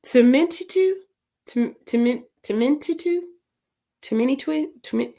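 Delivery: Tementitu attempted high, halting, breaking off; halting, unsure tries at Tementitu; struggling to pronounce. Real, not acted. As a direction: stumble through the name syllable by syllable. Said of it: "I need some phonics".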